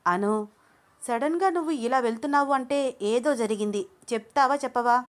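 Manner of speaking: worried friend pushing for an answer; insistent friend. Acted. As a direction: demand the truth from her. Junnu presses Anu.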